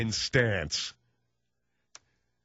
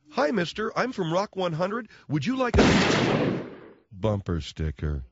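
higher, slow, naive intern offering stickers; eager intern; 5 semitones higher, slower than usual. Shown as a demonstration. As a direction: sing out the offer like a clueless kid. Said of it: "This is essentially how it would sound".

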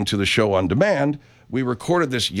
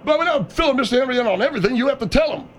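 high, fast staffer voice; 12 semitones higher, faster than usual. Acted.

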